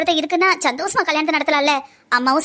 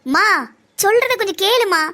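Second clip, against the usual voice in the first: raised-pitch plea for attention; plead, running out of patience; exasperated pleading; 4 semitones higher, slower than usual. Acted. Daughter urges wavering mother to listen, exasperated.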